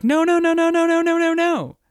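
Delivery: high, loud panicked string of nos; freaking out. Retold or imitated. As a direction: spiral into a panic on every no. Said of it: "she starts to freak".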